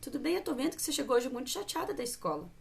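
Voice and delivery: voz mais baixa e tranquila, acolhendo; mãe calma com a filha. Shown as a demonstration. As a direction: acalme a filha chateada com ternura. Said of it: "Manter a calma também". (mãe acalmando a filha chateada, com voz serena)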